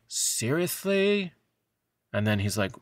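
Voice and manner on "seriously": incredulous. Retold or imitated. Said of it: "Enola looking at him like".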